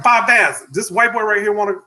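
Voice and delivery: high-pitched call to the boss; imitated receptionist. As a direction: mimic her announcing a walk-in, pitched well up. Receptionist calling out to the manager.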